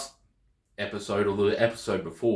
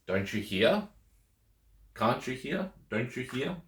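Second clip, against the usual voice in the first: "hear" rising at each question's end; questioning intonation; 2 semitones higher, 4 dB quieter than usual. Shown as a demonstration. Teacher giving negative question translations, questioning intonation. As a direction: lift "hear" each time as if asking. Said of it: "as long as there's a rise in tone".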